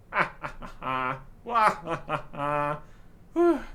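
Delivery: big booming pirate laugh; hearty hammed-up belly laugh; pirate guffaw. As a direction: roar with laughter at the threat. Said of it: "funniest thing I've heard all day".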